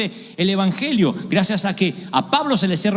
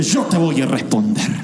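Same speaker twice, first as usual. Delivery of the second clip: God's deep answer; 6 semitones lower than usual. Acted. God announces answer.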